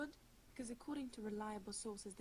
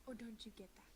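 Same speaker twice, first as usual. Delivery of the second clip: whisper; 6 dB quieter than usual. Acted. Cutting remark in an argument.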